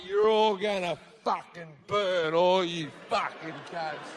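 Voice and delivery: spiteful God. Acted. God curses leaving guests.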